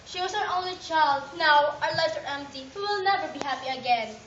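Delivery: loud grief. Acted. Mother mourns her only child.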